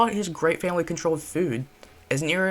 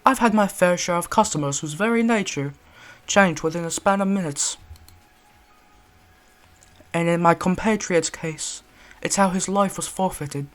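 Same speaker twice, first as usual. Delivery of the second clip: measured British storyteller; solemn British gentleman recalling; British accent. Acted. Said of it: "British accent for this one".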